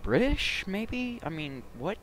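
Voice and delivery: very high, incredulous questioning; baffled disbelief. Real, not acted. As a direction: squeal it out in bafflement, loud at first. Baffled by a game character's accent.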